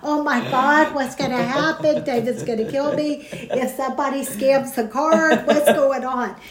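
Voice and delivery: flustered worrying at the pump, half amused; worried. Retold or imitated. Nervous customer fretting over a card scammer, mock panic. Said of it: "I'm worried I'm getting scammed".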